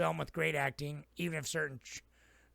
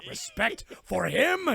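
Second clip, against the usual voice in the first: scornful retort; 7 semitones higher, 4 dB louder, much slower than usual. Retold or imitated. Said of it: "And he's like".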